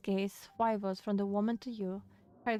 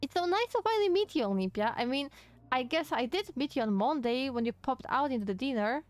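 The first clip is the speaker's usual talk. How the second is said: put-on bubbly young woman; 3 semitones higher than usual. Voices cheerful maid Janie.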